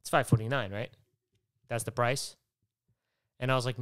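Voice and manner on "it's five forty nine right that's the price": imitating a smug guy, a bit louder; snide mockery. Mocking the impatient guy behind him, snide and pushy. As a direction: jab each word like a know-it-all. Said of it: "in a fucking cunty way".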